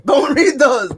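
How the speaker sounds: don't read those, pushed up high; rising alarmed repeat. Real, not acted. Repeats the plea higher.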